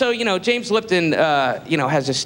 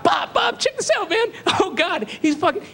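much higher, urgent nudge to a friend; excited whisper to friend; 9 semitones higher than usual. Retold or imitated. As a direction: nudge Bob, barely holding it together. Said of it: "I'm like".

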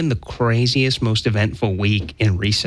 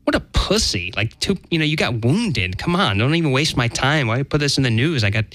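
mock dismissive; 2 semitones higher than usual. Host imagines a future jaded reaction to shootings, mock dismissive. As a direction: act out jaded impatience, pitched up.

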